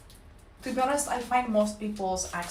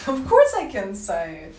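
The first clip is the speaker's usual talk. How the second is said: defiant insistence; 9 dB louder than usual. Real, not acted.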